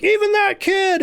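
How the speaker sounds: very high, loud and slow scorn; hammed-up wrestler snubbing a kid, high and slow; mock heel John Cena. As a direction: drag it out with mock cruelty. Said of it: "he's like".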